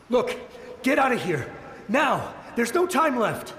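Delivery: urgent plea to flee. Acted. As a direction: drive them off before it is too late. Soldier orders strangers to flee.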